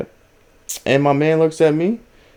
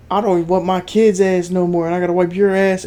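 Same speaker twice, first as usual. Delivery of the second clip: mild mock scolding, higher-pitched; retold screaming; 5 semitones higher than usual. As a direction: imitate scolding a dog, half-hearted yell. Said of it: "just starts screaming at the dog".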